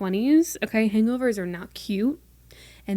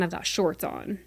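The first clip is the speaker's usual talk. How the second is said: whispered aside, breath only; 2 semitones lower, 6 dB quieter than usual. Real, not acted. Telling viewers a little secret in a whisper. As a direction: let the words slip out under your breath. Confiding aside about her outfit.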